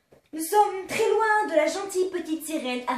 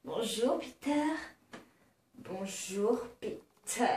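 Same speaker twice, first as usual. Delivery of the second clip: put-on giddy party girl; 7 semitones lower, 10 dB quieter, slower than usual. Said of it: "les voix de Poufias".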